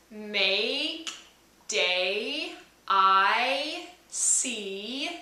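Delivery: make, day, I, see with a y-glide at the end; little y at the end. Shown as a demonstration. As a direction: let the little y glide close each vowel. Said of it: "do you hear the little y".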